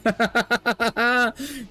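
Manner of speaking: high, rapid giggling laugh; amused laugh. Real, not acted. Streamer reads that he drives IT workers insane, amused giggle. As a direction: crack up in a rising giggle.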